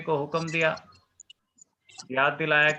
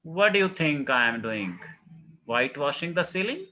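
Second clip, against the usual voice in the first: cool and incisive; much slower than usual. Acted. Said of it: "cool and incisive".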